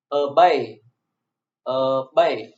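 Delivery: "obey" with the weight on "bey"; light first syllable, strong second in "obey"; second-syllable stress. Shown as a demonstration. Teacher demonstrating to students, "obey" stressed on its second syllable. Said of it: "The stress is on the second syllable".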